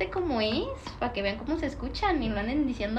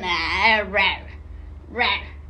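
mock dog growl; 5 semitones lower, much slower than usual. Imitating a Doberman.

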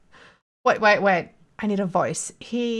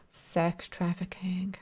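mock gasp; 3 semitones lower, 10 dB quieter, much slower than usual. Gasping mock horror.

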